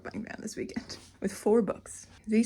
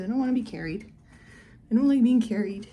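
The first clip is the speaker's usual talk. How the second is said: lightly voiced complaining pet; mock protest; pet's protest; 5 dB louder than usual. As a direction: speak up for a grumbling pet. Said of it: "She said".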